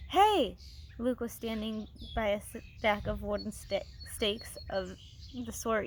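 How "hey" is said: high, loud excited call; excited shout. A narrator's reading. Luke calling the others over, excited shout. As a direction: yell it out, thrilled. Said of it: "His voice was excited".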